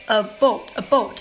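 示范加拿大口音的about，念成a boat; about念成a boat，像船那个词; Canadian about. Shown as a demonstration. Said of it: "加拿大人会说类似a boat". (加拿大口音念about)

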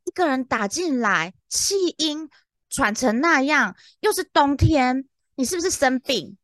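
high-pitched worried inner voice; retold nervousness. Agent worrying about a late-night panting caller, nervous. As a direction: think it through with mounting alarm, drawn out at times. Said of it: "然后我就紧张".

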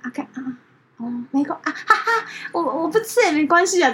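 high, laughing mock of the turtle; laughing imitation. Retelling the turtle's awkward line, laughing. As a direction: giggle through the awkward line. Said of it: "我就觉得太好笑了".

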